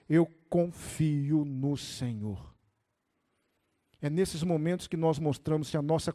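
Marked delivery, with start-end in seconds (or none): 0.1-2.5 low, very slow, steady avowal; lowered, drawn-out profession of faith; quiet declaration of trust. Retold or imitated. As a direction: voice David's trust slowly and deeply. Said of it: "Mas Davi disse".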